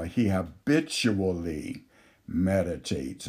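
deliberate, weighty stress on "habitually"; emphasis on habitually. Real, not acted. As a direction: lean on the word "habitually", then pause before "meditates". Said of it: "I'm emphasizing the word habitually".

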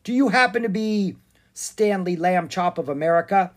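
a demanding question in a hint of girlish voice; young girl's voice. A narrator's reading. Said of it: "the voice of a young girl".

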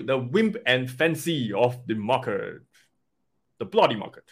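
slowed, playful go at British English; attempted British accent. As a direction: have a half-hearted stab at a British accent. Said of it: "Trying to go British".

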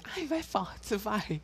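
mock moan in a high voice; very high thin voice. Teasing a friend on the phone in a high thin voice. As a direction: pitch it up high and thin to embarrass her. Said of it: "Eu fiz uma voz muito, muito fina".

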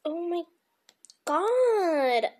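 high laughing exclamation. Real, not acted. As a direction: laugh it out loud.

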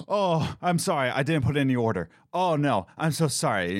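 high, fast, panicked apologizing; mock panic, quick and high; flustered apology. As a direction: gush out sorry in a fluster.

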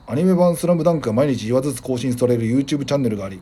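radio host reading a letter aloud; listener mail read-out. Real, not acted. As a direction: read the message out evenly and clearly. Reads listener's message. (お便りを読み上げる調子で)

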